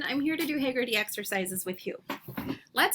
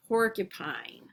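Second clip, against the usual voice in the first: "Porcupine" eased out a little slower; slowed down; 3 semitones lower, 4 dB quieter than usual. Shown as a demonstration. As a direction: say "Porcupine" carefully, still joined up. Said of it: "We'll slow it down".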